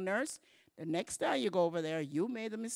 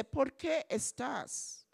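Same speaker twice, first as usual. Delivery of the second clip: offended stranger; 4 semitones higher than usual. Pretend. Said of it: "they'll say".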